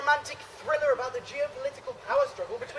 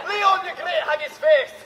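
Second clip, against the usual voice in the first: put-on Scottish accent; 4 semitones higher, 5 dB louder than usual. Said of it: "perfect Scottish accents".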